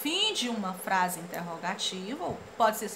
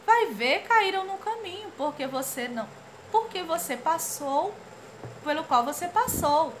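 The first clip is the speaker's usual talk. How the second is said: high teasing voice; 6 semitones higher than usual. Acted. Character hints at suspect.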